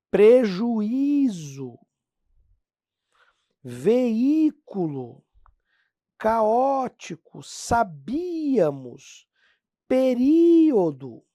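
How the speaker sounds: each word drawn out slowly, vowels split apart; slow, careful teacher reading of hiatus words; slow syllable demo. Shown as a demonstration. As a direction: read the list syllable by syllable. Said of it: "Olha a vogal aqui, uma em cada sílaba".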